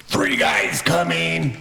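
high, stretched-out call; yelling out. Acted. Player character warning companions of approaching guards, yelling out. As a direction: call the warning across a crowd, drawn out. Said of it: "I yell out".

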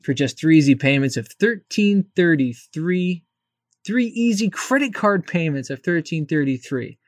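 home shopping host. Pretend. Mocking infomercial payment pitch.

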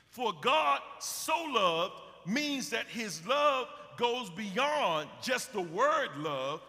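fervent sermon cry; preaching shout. Acted. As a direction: lift it up and proclaim it.

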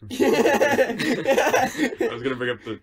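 breaking into high giggles; can't get the words out for laughing. Real, not acted. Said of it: "I can't, I don't know".

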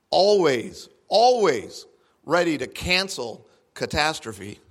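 measured, earnest Bible reading; scripture reading. Acted. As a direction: read the passage as a devout proclamation. Reads Joel from the Message.

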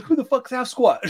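high, laughing mock-Australian shout. Robert Downey's character at the end, high mock Australian bafflement. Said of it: "in his Australian voice".

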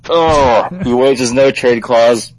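loud, excited burst of realization; sudden excitement. Real, not acted. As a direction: blurt it out like a sudden idea. Excited realization mid-take.

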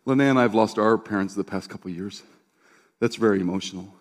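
gentle consoling. Retold or imitated. Pastor comforting a crying woman about lost parents, gently consoling. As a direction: quietly console with understanding.

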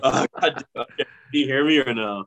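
garbled bad phone line; muffled, like talking underwater; underwater gurgling voice. Real, not acted. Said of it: "underwater screaming at me".

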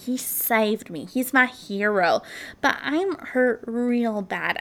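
a touch of sweet, innocent caller, playing it up; lightly voiced sweet victim, faking calm while hurt. Victim faking sweetness to the 911 operator, sweetly innocent. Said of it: "in this sweet, innocent voice".

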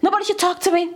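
quick, mildly worked-up protest; half-serious angry rant; mock anger. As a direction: imitate someone angry, rattling off warnings. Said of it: "when someone is angry".

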